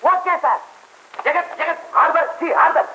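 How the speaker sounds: very high, eager summons; high-pitched calling. Acted. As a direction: call the band to order up high. Calling out to the musicians.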